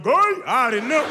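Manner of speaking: very high, loud gay; high-pitched stunned gay; mock shock. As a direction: act floored by the news. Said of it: "I was like".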